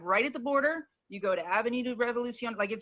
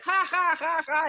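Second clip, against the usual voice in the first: high fake "ha ha" laugh; mock laughter; 7 semitones higher, 4 dB louder than usual. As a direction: laugh it off mockingly. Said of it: "they're just like".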